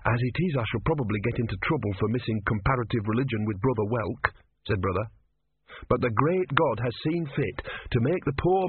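put-on worried, sincere young novice; earnest young novice. Brother's voice.

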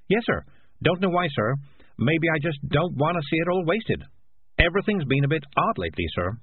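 a hint of a humble talking cat; deferential cat. Morris answering Death.

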